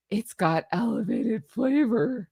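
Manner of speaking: slow, silly imitation of Megan; mock Megan voice. Imitating Megan bragging about her wine, slowly. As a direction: put on a vague posh Megan voice. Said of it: "I don't know what voice I'm doing".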